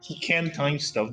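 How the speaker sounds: ordinary talk, nothing marked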